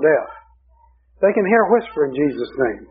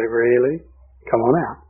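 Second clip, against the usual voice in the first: sweetly mocking; 4 semitones lower than usual. Shown as a demonstration. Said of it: "Just smile real sweet".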